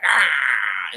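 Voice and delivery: loud imitated wolf-pack "ah"; drawn-out attacking yell, played for the story; mock attack cry. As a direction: pretend snarling war cry. Wolves turn on the Raptor.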